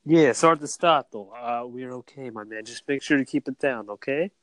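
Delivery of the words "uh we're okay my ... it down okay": soft, hushed Midas; Midas impression. Co-host impersonating Midas on request, hushed. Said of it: "impersonate my friend Midas".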